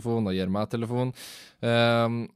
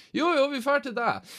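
high, singsong insistence; insisting friends. Retold or imitated. Friends overruling Ole's refusal, high and singsong. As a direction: brush off his excuse cheerfully.

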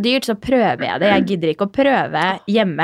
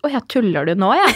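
laughing awkwardly. Retold or imitated. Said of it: "Og så ler jeg".

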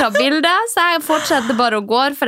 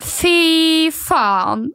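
shocked swearing; 6 semitones higher, much slower than usual. Retold or imitated. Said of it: "da tenker jeg bare sånn".

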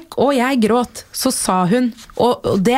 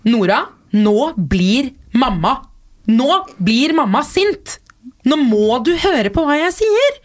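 put-on firm warning to toddler; 3 semitones higher than usual. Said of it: "Og jeg kan si det".

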